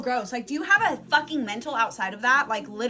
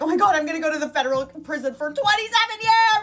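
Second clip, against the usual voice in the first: loud, higher, building alarm, acted; paranoid panic; 4 semitones higher, 5 dB louder than usual. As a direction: blurt it in exaggerated panic. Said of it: "I was so paranoid".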